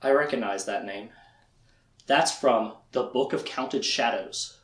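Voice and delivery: lightly voiced drowsy recognition; half-conscious Richard. Recapping the show, speaker voices feverish Richard recognizing a name. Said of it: "and he's like".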